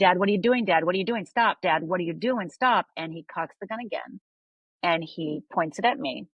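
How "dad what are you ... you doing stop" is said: urgent, slightly raised retold cry; retold yelling. Teen pleading with armed father, retold half-strength yell. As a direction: plead with dad to stop, reliving it without a full yell. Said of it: "And I start yelling".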